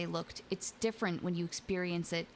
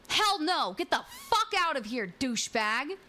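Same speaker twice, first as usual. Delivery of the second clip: loud angry retold yell, higher; 6 semitones higher, 5 dB louder than usual. Woman chasing off a creep at her window, loud yell. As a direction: shout him away from the window. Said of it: "I started yelling at him".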